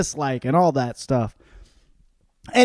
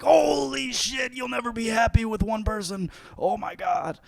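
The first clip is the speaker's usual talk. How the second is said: mock shock; 9 semitones higher than usual. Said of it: "and they're like".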